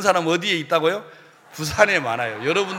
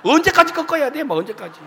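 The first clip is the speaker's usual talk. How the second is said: whiny protest; 5 semitones higher than usual. Retold or imitated. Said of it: "너무 힘들고".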